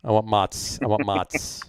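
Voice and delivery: "mozz" as "mots"; "mozz" rhyming with "dots"; standard vowel. Shown as a demonstration. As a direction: say "mozz" with an open AH. Contrasting ways to say mozz.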